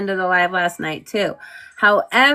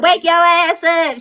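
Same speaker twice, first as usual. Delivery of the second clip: high pushy command; bossy wake-up call; 6 semitones higher than usual. Retold or imitated. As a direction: shake someone awake by voice. Friend shaking her awake.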